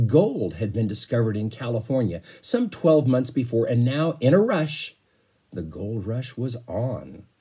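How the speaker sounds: put-on read-aloud storytelling voice for kids; teacher reading a chapter book to the class; story narration. A narrator's reading. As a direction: paint the voyage for young listeners.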